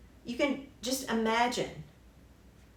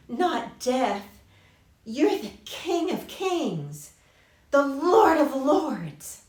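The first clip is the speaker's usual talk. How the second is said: a hint of Satan, swelling from coaxing to a loud grand promise; Satan tempting; 6 dB louder than usual. Preacher voicing Satan offering Jesus glory, coaxing then loud and grand. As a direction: build from a lightly voiced coax to a loud, grand pitch. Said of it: "Satan tempted him with".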